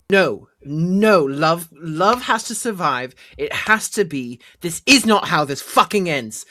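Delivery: desperate, rising in-character protest; impassioned defiance. Acted. Hero racing toward the champion to save love, impassioned defiance. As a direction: refuse it with everything you have, building to the end.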